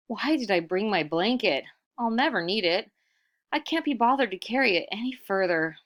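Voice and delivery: fed up with the heavy blanket; annoyed grumble. Acted.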